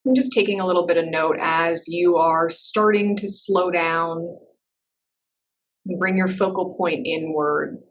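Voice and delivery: measured meditation-teacher voice with long pauses; guided meditation. Real, not acted. Teacher settling a class into breath and body, guided meditation. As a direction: guide them gently inward, leaving space between phrases.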